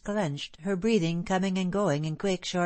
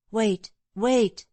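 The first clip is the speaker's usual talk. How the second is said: higher, louder urgent call to stop him; 4 semitones higher, 5 dB louder than usual. A narrator's reading. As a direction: call him back before he leaves. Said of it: "she said".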